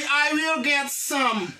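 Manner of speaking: slow modelled reply, word by word; lecture lente. Shown as a demonstration. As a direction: give the class the model answer slowly. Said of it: "il est dit". (réponse modèle dite lentement)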